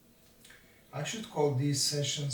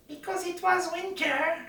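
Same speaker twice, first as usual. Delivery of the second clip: mock excuse; 3 dB louder than usual. No, it's not.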